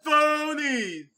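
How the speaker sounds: loud, high, drawn-out cartoon heckle; Family Guy. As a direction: shout accusations in a mock cartoon voice. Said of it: "being the Family Guy".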